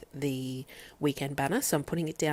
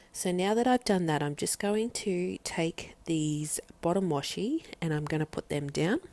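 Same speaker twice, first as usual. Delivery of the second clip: slightly breathless, heavily pregnant; short of breath from pregnancy. Real, not acted. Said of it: "Sorry if I sound a little bit out of breath".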